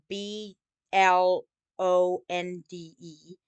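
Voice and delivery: B L O N D E spelled slowly, letter by letter, ending on E. Shown as a demonstration. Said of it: "adding E at the end".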